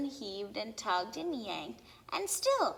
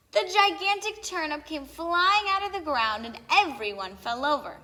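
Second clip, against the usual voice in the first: excited climax; 5 semitones higher, 6 dB louder than usual. A narrator's reading. Climax, turnip flies out.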